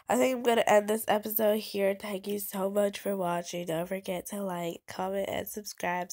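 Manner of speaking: blocked nose, nasal voice. Real, not acted. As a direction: talk through a stuffy nose. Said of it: "my nasally voice".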